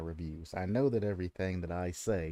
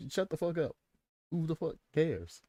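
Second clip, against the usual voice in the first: much higher, exasperated mock retort; mock brush-off; 9 semitones higher than usual. Answering a viewer who corrects him, high mock exasperation. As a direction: snap back at the nitpicker in a put-on high voice. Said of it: "I'm gonna be like".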